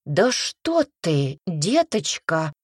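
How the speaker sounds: slow, drawn-out indignant protest. Acted. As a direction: protest as if wrongly accused. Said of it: "возмутилась женщина".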